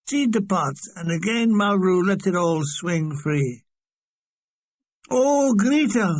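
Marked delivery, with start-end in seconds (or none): 5.1-6.1 high, drawn-out moan. A narrator's reading. Mulgrew pines for the buxom dancer, moaning. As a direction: moan the name slowly in mock longing. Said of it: "moaned Mulgrew".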